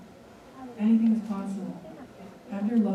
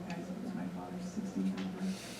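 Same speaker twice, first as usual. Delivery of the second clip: hushed reveal; 10 dB quieter than usual. Real, not acted. Emotional reveal to the audience.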